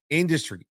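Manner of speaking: "industry" set apart and emphasized; stress on industry. Real, not acted. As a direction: lean firmly on the word "industry". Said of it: "emphasis on the word industry".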